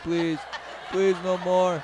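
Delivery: mock pleading. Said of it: "She's like".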